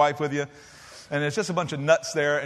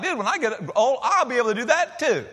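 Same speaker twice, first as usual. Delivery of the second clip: put-on laughing boyish boast; 6 semitones higher than usual. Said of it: "And I was like".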